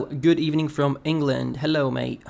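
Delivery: a quick, bad British accent for a viewer; tossing off a hammed-up British greeting; mock British accent. Greeting a viewer from England in a bad British accent. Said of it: "that's a terrible accent".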